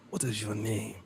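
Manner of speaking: hint of an African accent asking a name. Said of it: "I use my little African voice".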